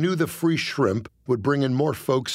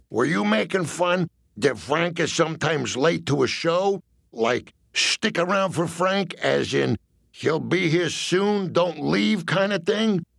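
mob enforcer voice; 4 semitones higher than usual. Acted. Jilly reasons slowly.

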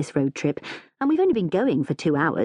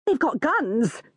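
higher-pitched, mildly panicked mum; wild alarm; 8 semitones higher, slower than usual. A narrator's reading. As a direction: blurt it in acted alarm. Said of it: "says Mum wildly".

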